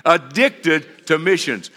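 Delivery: slow call-and-response Addicted to missions; leading the church in a chant; congregation repeat. Shown as a demonstration. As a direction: drag it out for the crowd to echo. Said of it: "Say it again".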